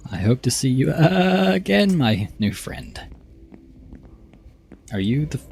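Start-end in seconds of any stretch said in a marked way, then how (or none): 0.1-3.0 slow, high rising swoop, dropping at the end; drawn-out character voice. Acted. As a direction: stretch the words upward, then settle. Same game character.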